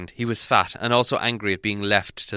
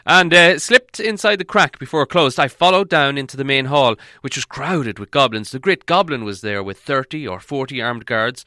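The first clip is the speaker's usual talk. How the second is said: higher, louder Gandalf voice; eager old wizard; 4 semitones higher, 6 dB louder than usual. Acted. Gandalf telling Beorn his tale, higher and louder. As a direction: hurry on with the tale, a bit flustered.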